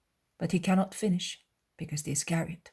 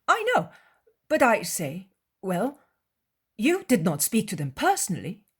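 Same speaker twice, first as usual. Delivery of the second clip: higher, eager, prying voice of a disciple; Judas voice; 5 semitones higher, 6 dB louder than usual. Acted. Judas slyly questioning his master alone, higher and eager. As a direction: probe the master sweetly while others sing.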